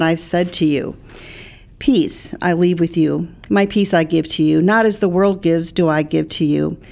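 measured, deliberate Bible reading; scripture reading. Acted. Pastor quoting John to a co-host, scripture reading. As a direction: read the verses out evenly and clearly.

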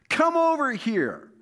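Goliath bellowing a threat across the field; giant's yell. A narrator's reading. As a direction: yell it out like a giant calling a challenge. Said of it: "Goliath yelled".

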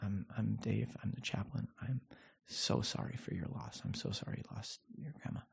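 soft, near-whispered sympathy; hushed chaplain's condolences to the family. Retold or imitated. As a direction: speak gently at a deathbed, barely voiced. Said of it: "I say".

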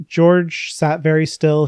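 slow, weighty book reading; dramatic reading. Acted. Quoting a sad moment from the book to her co-host, slow and weighty. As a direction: let the line sit still.

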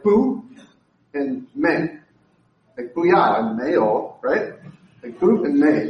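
"Bu" and "may" said as short Mandarin syllables; "booyah" and "mayo" as playful sound-alikes; Chinese no words. Shown as a demonstration. Pastor to church teaching Mandarin no, say "Bu" and "may". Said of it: "two different ways of saying no".

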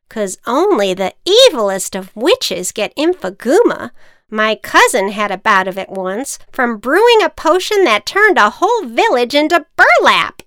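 loud witch voice. Acted. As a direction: witch telling tale. Witch explaining.

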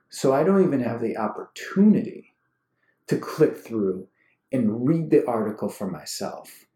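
indignant rant with punched words; worked up. Real, not acted. Ranting at people who screenshot only the headline, worked up. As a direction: build real indignation, leaning hard on key words. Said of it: "I'm getting worked up".

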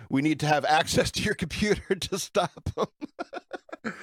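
put-on Indian-accented scammer breaking into laughter; imitated Indian accent, laughing. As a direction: play an Indian scam caller, laughing through it. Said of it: "some dude in India".

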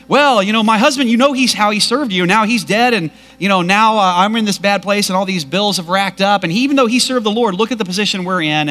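distraught widow pleading with the prophet; freaking out. Acted. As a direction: pour it out in a frantic rush. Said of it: "She's just freaking out".

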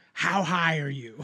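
slow, laughing question; retold laughing question. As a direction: ask it through a laugh. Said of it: "He goes".

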